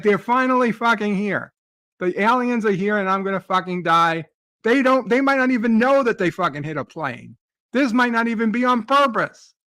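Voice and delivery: reliving the dream's fury at the aliens; annoyed rant. Retold or imitated. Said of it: "I was so fucking annoyed".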